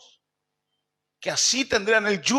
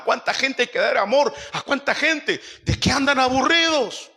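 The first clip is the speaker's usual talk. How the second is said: indignant preaching; 5 semitones higher than usual. Acted. Preacher indignant at bored Christians.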